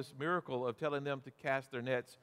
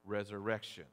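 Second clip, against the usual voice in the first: resurrection said apart and lower; stress on resurrection; 4 semitones lower than usual. Shown as a demonstration. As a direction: set the word resurrection off on its own, falling. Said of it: "emphasize the word".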